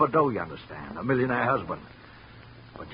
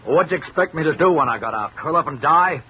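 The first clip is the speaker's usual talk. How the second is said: louder and higher, bitter defiance; indignant pitched-up protest; angry outburst; 7 semitones higher, 7 dB louder than usual. Acted. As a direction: fire back, stung by the accusation. Watchman defends his past, cornered.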